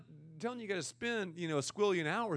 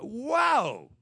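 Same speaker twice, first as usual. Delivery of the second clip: whoa; 5 semitones higher, 7 dB louder than usual. Retold or imitated. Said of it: "you're like".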